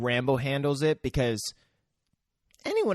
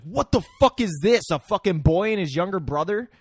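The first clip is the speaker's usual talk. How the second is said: higher, indignant acted outburst; unhappy mercenary; 5 semitones higher, 4 dB louder than usual. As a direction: play an incredulous, annoyed soldier. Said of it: "they're not happy that that's who".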